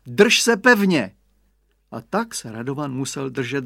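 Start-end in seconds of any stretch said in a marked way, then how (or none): 0.1-1.1 slow, high, loud mother's caution; slow emphatic mother voice; mother's warning. A narrator's reading. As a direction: mum repeating the warning slowly. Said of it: "Maminka řekla".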